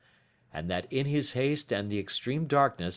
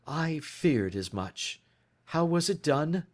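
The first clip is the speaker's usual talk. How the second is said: calm; 7 semitones higher, slower than usual. A narrator's reading. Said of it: "He spoke calmly".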